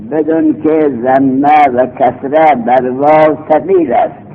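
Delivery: the rule read slowly, word by word, with ثقیل in place of صغیر; slow dictation reading. Shown as a demonstration. Teacher reading the rule out to the class, slow and measured. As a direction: read out بدون که ضمه و کسره بر واو ثقیل slowly so students can follow. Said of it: "قاعدتون".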